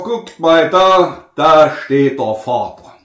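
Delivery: put-on loud, excited boy's cry; a boy yowling out to the others; crowing like a tomcat. A narrator's reading. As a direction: crow it out high and loud. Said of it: "Der Junge krähte wie ein Kater".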